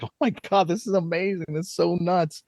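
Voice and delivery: high-pitched gushing amazement; awed excitement. Retold or imitated. Band member marvels at free records by a band, high excited gush.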